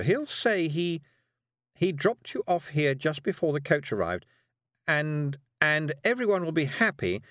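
high, nervous witch voice. Acted. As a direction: fluster through it, high and quick. Miss Tick's lines.

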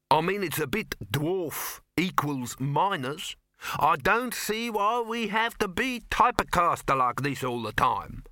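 whingeing dwarf objector; aggrieved dwarf. Acted. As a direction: protest being typecast, rising in pitch.

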